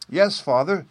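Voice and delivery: put-on high, loud little-child cry; piping, insistent shout; childish shout. A narrator's reading. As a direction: shout it up to father like a small child. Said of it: "shouted Peony".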